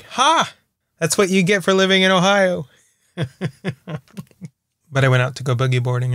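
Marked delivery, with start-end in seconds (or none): 0.0-2.7 higher mock gloat at Ohio. Vlogger mocks Cleveland fans cold at sixty degrees, gloating. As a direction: rub it in playfully. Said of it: "And I was like".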